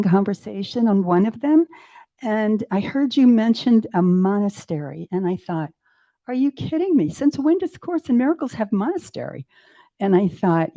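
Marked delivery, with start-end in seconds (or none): 6.3-9.5 raised, disbelieving question; a mild disbelieving scoff; incredulous. Retold or imitated. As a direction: scoff at the very idea. Incredulous inner thought.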